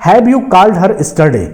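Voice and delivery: words spaced out slowly as a dictation; teacher slowly reading the original example question. Shown as a demonstration. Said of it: "दूसरा example कह रहा है कि".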